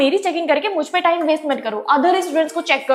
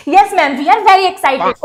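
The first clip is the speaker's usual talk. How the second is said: drawn-out sing-song class chorus; slow chorus; 2 semitones higher, 4 dB louder, much slower than usual. Acted. Students answering the teacher together, slow sing-song. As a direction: answer like a whole class in unison.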